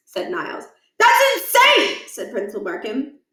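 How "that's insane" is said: high, loud, slowed disbelief; incredulous outburst. Acted. Principal reacting in disbelief to the boys' claim. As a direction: scoff in shock.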